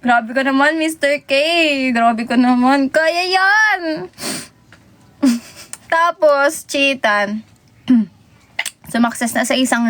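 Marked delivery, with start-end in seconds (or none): 0.0-4.1 high, excited cheering of a rider; mock cheering. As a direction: cheer him on as the ride climbs. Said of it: "cheering Mister K on ride". (masiglang pagchi-cheer)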